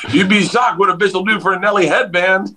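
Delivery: imitating a worldly driver sharing a secret; knowing bus driver. Driver explaining groupies to the comic, sly. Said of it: "He goes".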